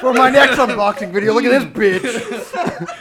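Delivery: hammed-up impression, dragging out the last phrase; Bill Cosby. Podcaster opening a fake unboxing video, hammed-up Cosby. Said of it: "Cosby doing an unboxing video".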